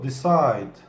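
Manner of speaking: "Decide" with the weight on "-cide"; de-CIDE, hit the end; stress on the last syllable. Shown as a demonstration. Teacher modelling for students, stress on CIDE. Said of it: "Side'de vurgu".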